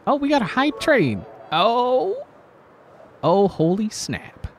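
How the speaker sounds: excited. Real, not acted. Hype train arrives on stream.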